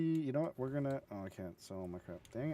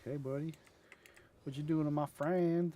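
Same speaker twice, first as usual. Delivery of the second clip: higher, louder challenge; mock confrontational quote; drone character; 6 semitones higher, 6 dB louder than usual. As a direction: playfully voice a drone confronting someone. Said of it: "this drone's like".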